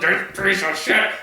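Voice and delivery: imitated seething through clenched teeth. Retelling brother's hatred of the movie, seething. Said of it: "I'm talking seething there, teeth clenched".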